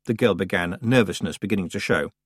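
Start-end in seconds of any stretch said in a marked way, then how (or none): none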